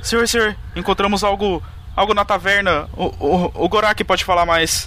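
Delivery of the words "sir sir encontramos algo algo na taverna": rattled, shaken voice, quivering throughout, pitched up. A role-play character reports a find in the tavern to 'sir', trembling voice. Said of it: "meio que com a voz tremendo assim".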